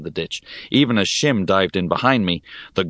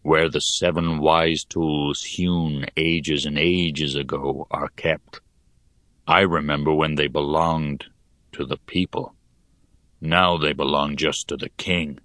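put-on gloomy old digger. Hone reminisces gloomily.

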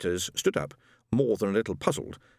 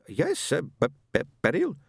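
stammering husband; 6 semitones higher than usual. Acted. Stammering ghost Ron.

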